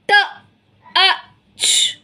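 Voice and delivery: T, A, ch spoken one sound at a time, each set apart by a pause; sounding out letters. Shown as a demonstration. Teacher sounding out a word for young children, letter by letter. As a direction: break the word into its separate sounds. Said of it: "See the word".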